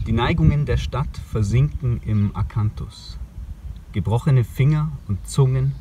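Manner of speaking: measured poetry recital with pauses between phrases; poem reading. Acted. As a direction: read the poem line by line, letting each image stand. Reads a poem aloud outdoors. (Gedichtlesung, getragen mit Pausen)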